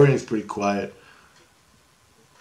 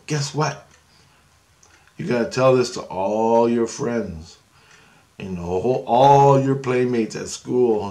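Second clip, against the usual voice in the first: put-on drawn-out teasing to child; slower than usual. Telling a little kid a secret.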